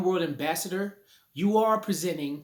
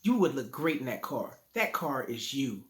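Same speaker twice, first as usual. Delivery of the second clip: a hint of a smooth car salesman, a touch lower; lightly voiced salesman making his pitch; 3 semitones lower than usual. Teacher imitating a car salesman selling to a buyer, mild smooth pitch. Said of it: "the car salesman talks like this".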